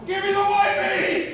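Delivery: high, slow, strained yell through laughter; panicked uncle yelling from the back seat at mom; desperate yell. Retold or imitated. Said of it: "yells at my mom".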